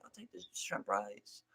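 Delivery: mock Chinese accent. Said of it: "slightly morph my s-, my s- voice to sound a little bit like I got an accent".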